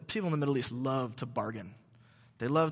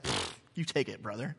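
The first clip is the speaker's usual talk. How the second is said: low, soft, offhand generosity; dismissive local seller; 6 semitones lower, 7 dB quieter than usual. Retold or imitated. Local seller offering horse to British archaeologist, low and offhand. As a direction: wave the horse away like it's nothing. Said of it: "The guy's like".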